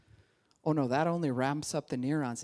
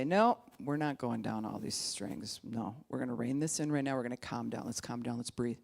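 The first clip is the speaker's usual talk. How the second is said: calming self-talk; 3 semitones lower, 4 dB quieter than usual. Shown as a demonstration. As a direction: ease the words out to calm the brain. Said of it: "the tools to say".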